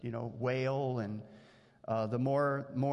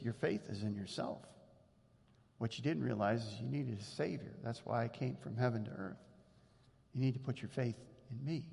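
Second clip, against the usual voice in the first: calm correction; 3 semitones lower, 5 dB quieter than usual. Retold or imitated. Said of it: "And Jesus says".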